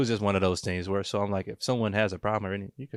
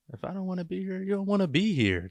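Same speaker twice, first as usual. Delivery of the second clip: mock breezy bluntness; 10 semitones higher than usual. Voicing his own blunt stance.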